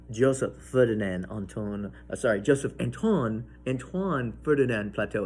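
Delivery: attempted French accent. Shown as a demonstration. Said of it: "horrible at trying to do a French accent".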